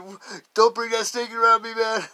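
loud, high panicked yell at a buddy; retold yell. Buddy yelling across the cars about the snake, loud and panicked. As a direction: shout it like the snake is right at your feet. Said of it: "stopped and turned around and said".

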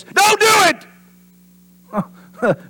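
very high, drawn-out forceful cry; booming command. Retold or imitated. God warning Adam off the tree, booming and drawn out. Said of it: "he was saying this".

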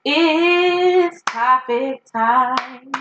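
drawn-out, slow topic time call; slow hosty announcement of topic time; segment announcer. Acted. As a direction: stretch it like a show host.

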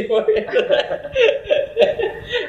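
high-pitched burst of laughter. Real, not acted. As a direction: laugh at your own joke. Laughing after own joke.

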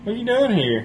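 high-pitched mock puzzlement; retold surprised challenge. Man in underwear questioning a visitor, high mock surprise.

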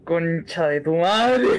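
drawn-out shocked curse breaking into laughter; startled swearing. Real, not acted. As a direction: swear in a laughing panic, stretching the words. Startled by the creature overhead.

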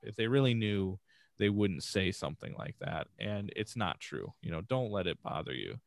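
soft, comforting words to a crying son; quiet fatherly reassurance; reassuring dad. Retold or imitated. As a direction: console him gently. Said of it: "I'm like".

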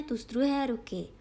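plain reading voice

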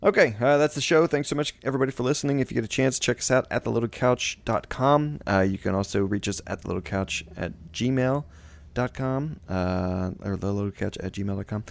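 upbeat sign-off, host voice; podcast outro. Acted.

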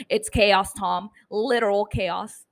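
weakly faked TV news anchor. Shown as a demonstration. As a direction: attempt a serious newsreader delivery. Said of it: "I couldn't make my news anchor voice".

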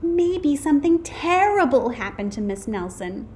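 put-on high-pitched anxious child voice; worried child. A narrator's reading. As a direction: fret aloud like a worried kid.

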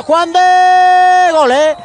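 slow drawn-out shout; goal shout. Real, not acted. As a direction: stretch the goal call. Goal call, live.

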